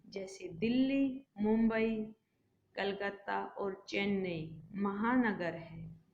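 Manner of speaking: short pause after Delhi and after Mumbai in the list; pause between names. Shown as a demonstration. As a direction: list the cities with small stops. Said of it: "बोलते समय थोड़ा थोड़ा रुकते हैं".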